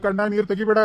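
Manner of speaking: a mild, understated tearful plea; urging her not to cry while close to tears himself; holding back tears. Acted. Grandfather parting from the newly married granddaughter, mildly tearful. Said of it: "ತಾನ ಅಳಾಕತ್ತಾನ ಸಣ್ಣ ಹುಡುಗನಂಗ".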